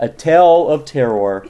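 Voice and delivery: slow, ominous horror announcer; vintage horror narrator. Acted. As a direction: draw out the title like old radio.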